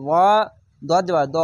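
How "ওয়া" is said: thick, constricted ayn sound in "ওয়া"; throaty ayn. Shown as a demonstration. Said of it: "আইনটিকে মোটা করে গলা চিপে পড়বেন".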